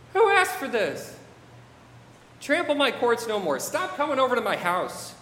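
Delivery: building from weary question to indignant protest; God. Acted. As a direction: scold them as an offended, fed-up deity. Reads God's rebuke in God's voice.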